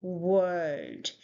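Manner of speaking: WORLD with a rounded w, not v; w-sound demo. Shown as a demonstration. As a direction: say WORLD slowly, falling. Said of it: "w sound instead of v sound".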